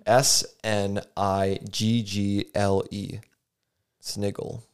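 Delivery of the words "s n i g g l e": spelling it out. Shown as a demonstration. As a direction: spell "S N I G G L E" slowly, letter by letter. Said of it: "I'm going to spell it for you".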